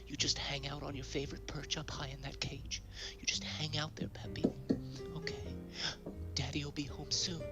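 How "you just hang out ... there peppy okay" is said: whispering. Acted. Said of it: "I have to whisper".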